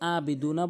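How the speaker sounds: "আবিদুনা" with a simple initial a; hamza mistake. Shown as a demonstration. Teacher pointing out a serious mistake, "আবিদুনা" with hamza. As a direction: say "আবিদুনা" without ayn. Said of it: "হামজার উচ্চারণ".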